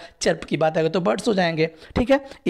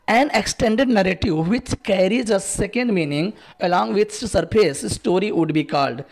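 slow, careful quiz-question reading; slow dictation read; 2 semitones higher, much slower than usual. Acted. Teacher reading the exam question aloud to students, slow and careful. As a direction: spell it out slowly for the class.

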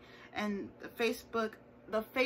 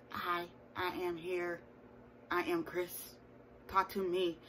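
slow, soft robotic monotone; 5 dB quieter than usual. Retold or imitated. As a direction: speak like a flat robot. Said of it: "a robotic voice to be like".

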